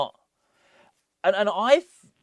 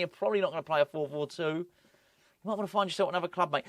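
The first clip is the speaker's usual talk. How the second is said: imagined manager. Retold or imitated. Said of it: "he's probably said to Danny Ings".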